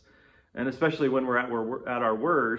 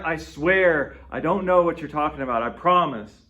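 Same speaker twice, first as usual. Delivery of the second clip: louder, earnest insistence; insistent swearing; 3 semitones higher, 5 dB louder than usual. Retold or imitated. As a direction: plead your honesty, pressing hard. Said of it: "we want to emphasize our own honesty".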